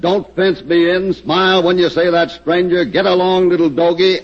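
a hint of a movie cowboy; cowboy talk. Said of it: "that's real authentic cowboy talk".

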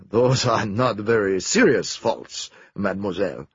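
a touch of a smile in the voice; smiling. Acted. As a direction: tease her lightly. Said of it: "said Poirot, smiling".

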